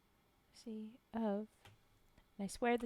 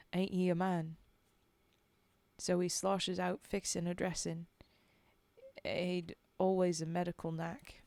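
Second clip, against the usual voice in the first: put-on Cockney-ish accent; 2 semitones lower, 5 dB louder than usual. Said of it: "that original accent".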